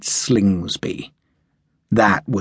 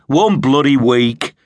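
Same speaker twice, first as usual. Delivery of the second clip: a louder, bitter snarl; 4 semitones higher, 5 dB louder than usual. A narrator's reading. Sharp snarls to Harper over his cut leave. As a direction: spit the words out in disgust. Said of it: "Sharp snarled".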